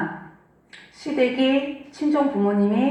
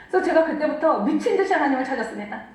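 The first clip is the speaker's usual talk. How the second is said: faster and more urgent, stress on 듯이; urgent emphasis; 3 semitones higher, faster than usual. Shown as a demonstration. Preacher repeating her turning point, more urgent. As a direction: drive the words 미친 듯이 home with urgency. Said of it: "repeated testimony line".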